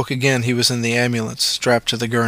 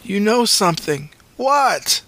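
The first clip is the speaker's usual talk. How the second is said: higher insistent demand; pressing Luke; 10 semitones higher, slower than usual. A narrator's reading. Luke pushing the paramedic to explain, insistent. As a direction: insist he tells you.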